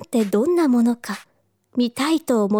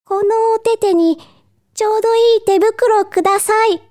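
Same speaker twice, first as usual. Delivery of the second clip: put-on higher, childlike polite request; high-pitched little customer; little fox cub; 8 semitones higher, 3 dB louder than usual. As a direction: ask like a small fox cub at a shop. Fox cub asks for gloves.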